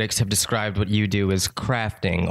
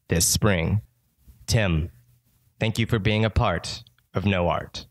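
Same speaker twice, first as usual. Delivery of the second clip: radio host. Acted. Arts radio host intro.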